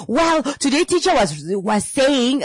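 put-on high, eager little girl voice rushing her news; bubbling over like a kid home from school; excited daughter. Mother imitating her daughter telling school drama, high and eager.

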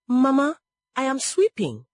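high-pitched, puzzled protest; confused. A narrator's reading. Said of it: "Adaeze looked confused".

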